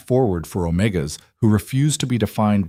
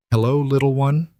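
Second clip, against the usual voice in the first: higher, adoring greeting; tender murmur; 6 semitones higher than usual. A narrator's reading. New father greets his baby daughter, adoring. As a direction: coo it lightly to a newborn. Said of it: "he murmured".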